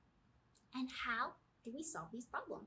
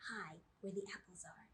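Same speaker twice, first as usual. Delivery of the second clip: whisper; 2 semitones lower, 7 dB quieter than usual. Acted. Whispered question.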